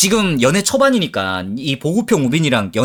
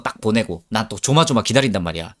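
ordinary delivery

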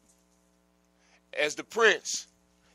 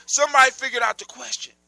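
princess voice; 8 semitones higher, 11 dB louder, faster than usual. Acted. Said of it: "the princess says".

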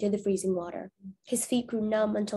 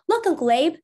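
put-on higher, louder child's call; 7 semitones higher, 6 dB louder than usual. Boy in the wagon calling to Abe, high excited call. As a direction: lean out and call to get his attention. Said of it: "called one of the boys".

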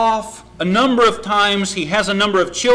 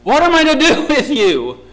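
higher, louder scolding parent; frustrated parent; 6 semitones higher, 4 dB louder than usual. Acted. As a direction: scold a child who never listens. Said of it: "You ever get frustrated with your kids?".

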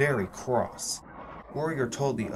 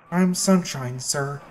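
nervous; 5 dB louder, slower than usual. Acted. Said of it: "cried Sunshine nervously".

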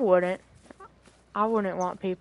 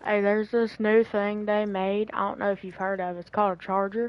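sarcastic. Acted. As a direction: play dumb to mock him. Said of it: "I was making sure he knew they made a thing called a charger".

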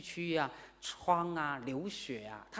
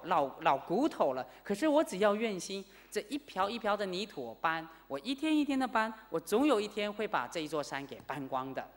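put-on old man, raised and louder, insisting; a stubborn old man who won't give up; lightly voiced old man, loud and resolute; determined old man; 4 semitones higher, 3 dB louder than usual. Old man insists he'll move mountain.

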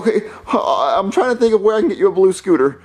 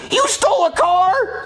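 high, drawn-out incredulous question; shocked disbelief; 11 semitones higher, slower than usual. Acted. Mario learns his friend stole a car, high shocked disbelief. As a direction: stretch it out, aghast.

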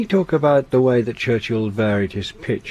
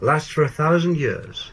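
"years" carries the main emphasis; stress on years; 5 semitones higher than usual. Shown as a demonstration. Presenter reading Churchill's speech in the normal way, stress on "years". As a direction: lean on "years" at the phrase's end. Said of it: "putting the emphasis really on, on years".

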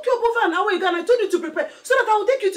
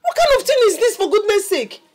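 high, loud maternal tirade; furious shouting; 11 semitones higher, 7 dB louder than usual. Acted. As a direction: scold at full volume, exasperated. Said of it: "sorry, I will not shout again".

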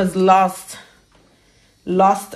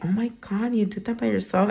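impressed; 3 semitones higher, 6 dB quieter, faster than usual. Pretend. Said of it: "they're gonna be like".

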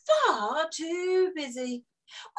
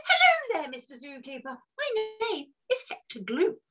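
lightly voiced grand showman greeting; posh showman; 3 semitones higher, faster than usual. Hector Gloop greeting the zookeeper, grand showman voice. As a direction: greet like a flamboyant collector. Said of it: "a man in a cravat and a very sparkly top hat said".

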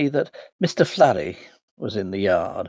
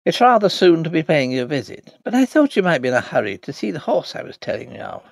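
sing-song Irish brogue; 3 semitones higher, faster than usual. Acted. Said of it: "in his slow, sing-song brogue".

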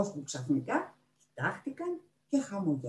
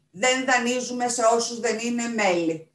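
stern librarian shutting down a request; abrupt refusal; 6 semitones higher, 6 dB louder than usual. A narrator's reading. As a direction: cut in sharply, higher and louder. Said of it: "την έκοψε απότομα".

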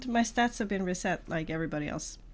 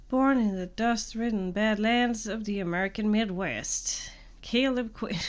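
put-on southern accent; 3 semitones higher, 4 dB louder than usual. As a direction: read it like a Western, light southern accent. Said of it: "have to have a southern accent".

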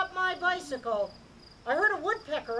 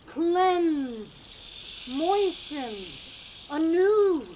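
each word louder and higher until shouting; building to a shout; 3 semitones higher, 7 dB louder, much slower than usual. Acted. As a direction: swell from calm to a big cry. Building chant of refreshed.

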